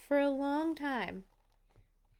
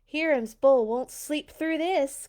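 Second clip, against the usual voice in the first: cackling farmer; 2 semitones higher, 5 dB louder than usual. Acted. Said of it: "cackled the farmer".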